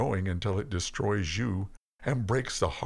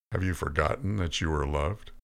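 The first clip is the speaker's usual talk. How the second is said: usual speaking voice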